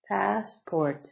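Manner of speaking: passport with PASS up high and port dropping low; teacher's drawn-out demo of passport; high-then-low stress demo. Shown as a demonstration. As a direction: lift pass, let port fall. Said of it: "so up high".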